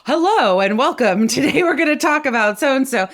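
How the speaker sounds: big, confident presentation opener; presenter greeting. Shown as a demonstration. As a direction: greet the room with open space. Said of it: "you can be".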